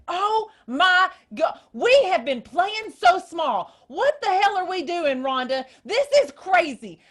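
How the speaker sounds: high, loud, fired-up outburst; imitating a hyped-up friend bursting out; excited friend. Friend calling from Panama, loud and thrilled. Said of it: "She was so excited and so hyped up".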